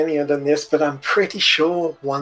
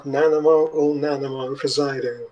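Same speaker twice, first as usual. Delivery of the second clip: pompous fussy courtier; 3 semitones higher, 3 dB louder than usual. Acted. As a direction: announce the royal arrival proudly. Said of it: "a voice coming from the entrance who goes".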